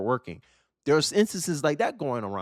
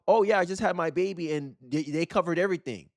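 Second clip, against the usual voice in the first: bragging migrant; 3 semitones higher than usual. Retold or imitated. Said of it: "bragging about how".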